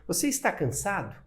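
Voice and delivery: "Você está cansado?" asked with question intonation. Shown as a demonstration. Teacher showing students how speech marks a question, "Você está cansado?" with question intonation. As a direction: let the tune alone turn "Você está cansado?" into a question. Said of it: "eu vou modificar a entonação".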